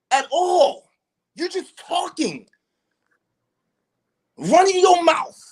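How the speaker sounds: real heated argument; furious berating. Real, not acted. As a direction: belittle him in real anger, ending in a shout. Continued tirade at the man.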